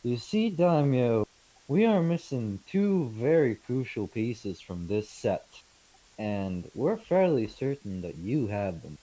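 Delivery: measured trader pressing a lord; a hint of a pointed negotiator; lightly voiced merchant negotiator. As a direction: lay out the case with mild in-character formality.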